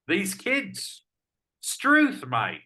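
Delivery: high, loud Aussie exclamation; outback bushman. Pretend. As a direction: yelp out struth like a bushman. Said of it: "lapse into the vernacular".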